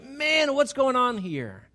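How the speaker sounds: high, loud, drawn-out complaint; exasperated believer. Retold or imitated. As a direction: cry it out as someone under attack. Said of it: "and you're like".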